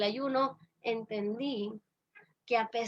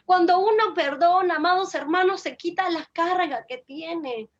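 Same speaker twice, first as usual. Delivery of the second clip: raised, emphatic preaching voice; 3 semitones higher, 3 dB louder than usual. Real, not acted. Speaker teaches beloved brethren about forgiveness, preaching emphatically. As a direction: preach it out to the congregation.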